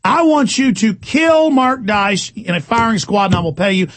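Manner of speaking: hammed-up impression of a rival host; mock quote. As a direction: parody him as a villain. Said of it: "He said".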